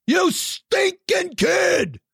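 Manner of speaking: high cracking shout; mock outraged shout. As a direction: yell it in fake despair.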